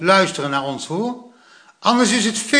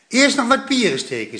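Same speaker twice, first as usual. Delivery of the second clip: grandpa says it right; 8 semitones higher than usual. A narrator's reading. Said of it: "zei opa".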